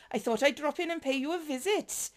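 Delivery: a light Welsh lilt on the greeting; generic Welsh accent. Acted. Agent greets the new recruit, light Welsh accent. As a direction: try a mild Welsh sing-song. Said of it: "go generic Welsh".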